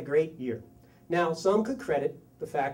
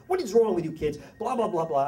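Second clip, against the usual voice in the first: mild mock yell of a scolding dad; retold yelling; 3 semitones higher, 4 dB louder than usual. Dad at the family meeting, mild mock yelling. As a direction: scold higher, in a retold rant. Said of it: "I start yelling at 'em".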